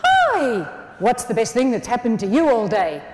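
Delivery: exuberant greeting. Shown as a demonstration. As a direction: burst out with a big hello. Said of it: "saying it like this is important".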